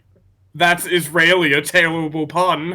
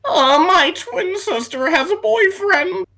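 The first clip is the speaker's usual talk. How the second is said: much higher mock voice of a clueless relative; high mock poster; 13 semitones higher than usual. Friend reads a relative's post in a high put-on voice. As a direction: pipe it up like a silly relative.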